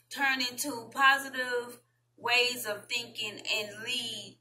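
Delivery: deliberate article read, phrase by phrase; measured read-aloud with pauses between phrases. Real, not acted. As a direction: read it out carefully with slow stretches. Reads an article aloud to viewers.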